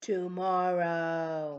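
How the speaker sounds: big, booming giant voice. Leading listeners in saying tricky words in silly ways: deep giant voice. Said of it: "Deep, like a big giant".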